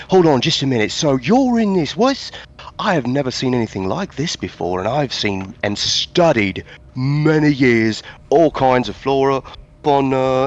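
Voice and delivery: put-on a thrilled scholar slipping into a Southern accent. Player voicing an eager scholar with a slipped Southern accent. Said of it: "I went southern as fuck".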